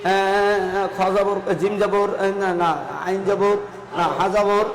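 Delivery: lightly acted halting learner, fumbling and self-correcting; villager struggling to spell. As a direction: imitate a hesitant pupil sounding out letters. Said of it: "কেন গ্রামের মানুষ বানান না পারে". (গ্রামের মানুষের আটকে আটকে বানান করার হালকা অভিনয়)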